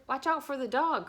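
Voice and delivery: high, loud sheep warning; sheep crying out. A narrator's reading. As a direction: cry out like a sheep. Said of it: "cried the sheep".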